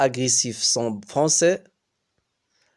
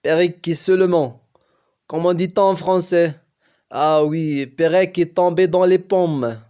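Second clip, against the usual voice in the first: put-on louder, lightly American-accented French; a hint of an American coach searching for words; 3 semitones higher, 6 dB louder than usual. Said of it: "dit-elle avec un accent américain".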